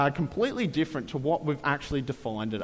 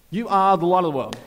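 proclaiming; 7 dB louder, faster than usual. Acted. Same line repeated with more force.

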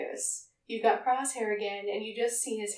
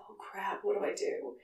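panicked whisper; 5 dB quieter than usual. Retold or imitated. Hunter panics seeing Crosshair.

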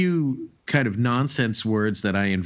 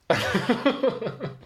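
high, breathy burst of laughter; 11 semitones higher than usual. Real, not acted. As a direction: laugh at the punchline. Laughs at his own joke.

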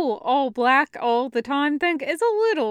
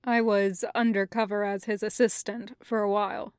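low, soft, even explanation; composed Kravitz; 4 semitones lower, 4 dB quieter than usual. Acted. Kravitz explaining his living arrangement to Taco, composed and low. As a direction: keep it low, quiet and measured.

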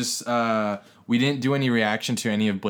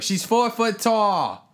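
higher-pitched, drawn-out mock protest; retold protest; 11 semitones higher, much slower than usual. Husband defending his four-foot wife, mock protesting. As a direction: stretch it out high, imitating a husband's objection. Imitating the woman's indignant husband.

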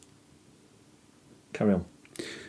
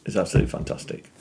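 whispering; 12 semitones lower, 10 dB quieter, faster than usual. Real, not acted. Hushed aside after praising show.

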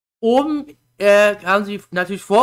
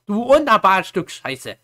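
acted exasperation; much slower than usual. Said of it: "da denkst du dir auch nur so".

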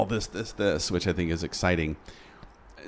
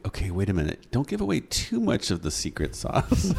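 amused mock caution, breaking into laughter; playful warning that ends laughing. Real, not acted. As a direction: tease a warning, pitch lifting into a laugh at the end. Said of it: "I'm laughing because as your consultant".

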